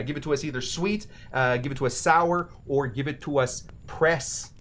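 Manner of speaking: put-on light Minnesotan accent for quoted Wisconsinites. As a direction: order with a touch of Minnesotan. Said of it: "Skewing a touch Minnesotan there".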